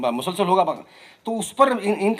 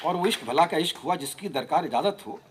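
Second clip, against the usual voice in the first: rhythmic, lilting verse recitation; poetry recital; 6 dB louder than usual. Acted. Poet giving a playful reply to Faiz, rhythmic recital. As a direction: recite each line to a regular beat.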